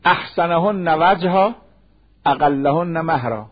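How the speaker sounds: measured religious chant, word by word; slow Arabic hadith recitation. Acted. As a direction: recite the Arabic slowly, like scripture. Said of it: "حدیث داریم".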